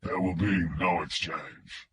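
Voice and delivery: low, slow, flat electronic kidnapper voice; mechanical filtered voice. A narrator's reading. Kidnapper on the phone to Wingo, mechanical filtered voice. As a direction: speak like a voice through a distortion filter. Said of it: "The filtered voice was mechanical".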